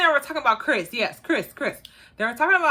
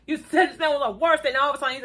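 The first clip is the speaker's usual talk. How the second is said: laughing; 3 semitones higher, much faster than usual. Real, not acted. Laughing while teasing Kyra.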